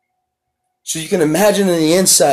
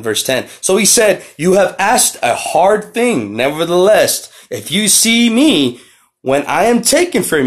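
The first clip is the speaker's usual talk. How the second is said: slow, raised, solemn reading of scripture; 2 semitones higher than usual. Acted. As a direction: read the verses out like a preacher, slowing down. Reads scripture aloud.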